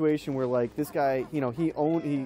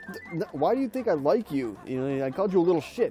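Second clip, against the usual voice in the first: flustered retort; 4 semitones higher than usual. Retold or imitated. Guy defending himself, retold.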